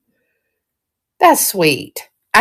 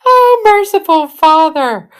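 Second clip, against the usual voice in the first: high laughing exclamation; giggling plea to heaven; 8 semitones higher than usual. Real, not acted. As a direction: laugh out a mock prayer.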